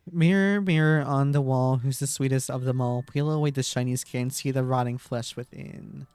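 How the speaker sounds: creepy rhyme reading. Acted.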